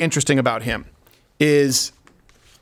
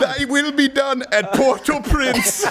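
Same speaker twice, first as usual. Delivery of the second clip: high, slow mock-solemn chant, cracking up; laughing through the prayer; 9 semitones higher, slower than usual. A host reads the dictator's prayer, cracking up. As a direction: intone it like church while giggling. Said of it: "this is the Papa Doc prayer".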